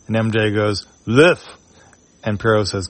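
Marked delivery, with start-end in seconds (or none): 1.1-1.4 put-on small high baby voice, one mumbled word; baby babble. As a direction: coo it like a toddler in a sling. Baby MJ answers in comic.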